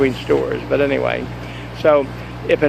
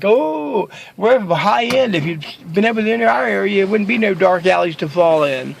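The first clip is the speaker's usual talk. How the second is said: lightly voiced, high-pitched snob boasting; a hint of a stuck-up clerk looking down on you; snooty upscale clerk; 5 semitones higher than usual. Safeway employee bragging, high end.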